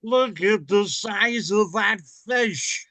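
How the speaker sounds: slow, drawn-out announcer voice; lightly voiced Harry Caray; Harry Caray impression. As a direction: play the old Cubs announcer, slow. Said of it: "Mister Harry Caray".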